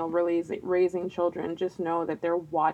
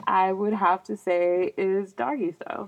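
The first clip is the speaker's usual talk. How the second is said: awkward mumbled admission; half-swallowed, embarrassed answer. Real, not acted. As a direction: mumble it shyly, reluctant to be heard. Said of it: "It sounded like you mumbled a little bit".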